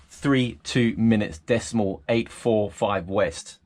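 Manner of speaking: slow, spaced-out radio readout; slow radio call. Shown as a demonstration. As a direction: read each digit slowly for the coast guard. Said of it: "You would say three nine degrees".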